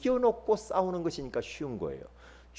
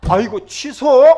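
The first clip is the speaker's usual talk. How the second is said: alarmed outcry; 6 semitones higher, 12 dB louder, slower than usual. Retold or imitated. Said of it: "retold own panic".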